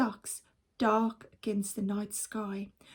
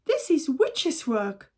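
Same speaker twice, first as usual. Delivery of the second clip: cry; 3 semitones higher, 4 dB louder than usual. Acted. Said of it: "cried Mister Gregg".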